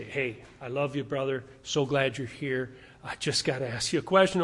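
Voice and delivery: gentle, softened lead-in to a question; loving, affirming. Acted. Elder gently approaching a pastor with a question, loving and affirming. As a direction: ease in kindly, voice a little low. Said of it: "loving, affirming qualifications".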